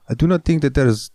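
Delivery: put-on German accent. Shown as a demonstration. Host arguing German is not sexy, German accent. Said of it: "doing German".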